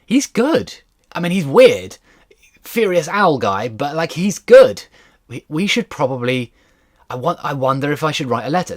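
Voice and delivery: high, eager musing, slowing on good; excited inner thought. Retold or imitated. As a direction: convince yourself he's the real thing. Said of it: "is watching him act and thinking".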